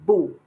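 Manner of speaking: "bu" in a falling fourth tone; loud "bu" in Mandarin fourth tone. Shown as a demonstration. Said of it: "has is actually fourth tone".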